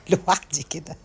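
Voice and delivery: slow words broken by real laughter; laughing to herself. Real, not acted. Vlogger recalling funny moments, laughing for real. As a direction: laugh through it as you remember. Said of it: "فبقعد أضحك ضحك".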